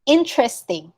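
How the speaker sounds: "Interesting" as IN-tres-ting; dropped E. Shown as a demonstration. Teacher modelling for the class, in-tres-ting. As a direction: leave out the middle E of "Interesting". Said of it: "we don't say the E".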